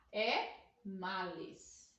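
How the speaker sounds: "É males" slow and drawn out, stressing males; teacher giving the right form slowly; correct plural stressed. Shown as a demonstration. Teacher correcting students, slow stressed plural. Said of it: "Não é maus".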